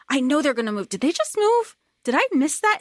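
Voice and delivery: high-pitched puzzled viewer, lightly acted; mock disbelief. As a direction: play an audience member doubting their eyes. Voices a puzzled audience member.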